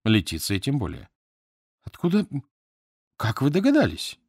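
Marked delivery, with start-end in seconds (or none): 1.8-4.2 flustered babbling. A narrator's reading. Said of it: "пролепетала она тоже по-английски".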